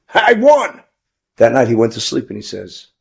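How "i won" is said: high, loud mock cheer; excited and elated. Boy who won the raffle, elated. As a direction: act out a winner's triumphant cry. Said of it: "should have been excited and elated".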